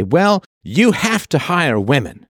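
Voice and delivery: mock official. Mocking quote of hiring mandates.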